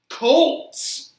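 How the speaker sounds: loud, high cheer for the team; excited cheer. Real, not acted. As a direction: yell the team name with glee.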